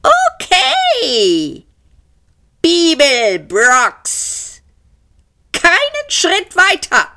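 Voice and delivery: high, drawn-out call through a megaphone; megaphone shout. A narrator's reading. Police calls to the cornered fugitives through a megaphone. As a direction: bark it over a loudhailer. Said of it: "Eine Megafonstimme schrie".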